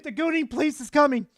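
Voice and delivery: mock police voice. Mock police bust on chat.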